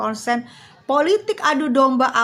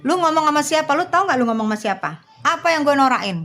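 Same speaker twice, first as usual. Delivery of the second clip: raised, sharp questions fired back; offended host snapping back at a rude viewer; indignant retort; 2 semitones higher than usual. Real, not acted. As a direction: push back hard at the heckler. Confronting a heckler in chat.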